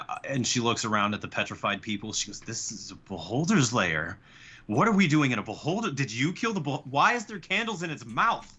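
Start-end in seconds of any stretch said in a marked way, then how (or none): 2.4-8.5 rising, faster panicked questions; frightened woman realizing where she is; alarmed. Acted. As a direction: voice climbing in alarm. NPC panics in beholder lair.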